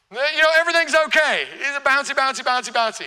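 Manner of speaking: a hint of cheerful Tigger. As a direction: bounce it out cheerfully. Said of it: "Tigger personality".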